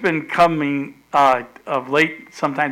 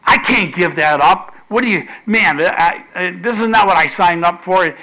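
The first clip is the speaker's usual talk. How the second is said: louder, mildly heated objection; imitated indignant outburst; angry protest; 3 semitones higher, 5 dB louder than usual. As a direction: act out someone arguing back at God. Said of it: "he started feeling anger".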